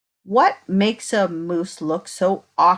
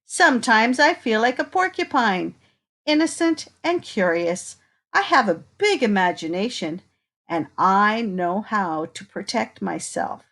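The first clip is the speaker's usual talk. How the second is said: put-on reading to children. Reading picture book to children.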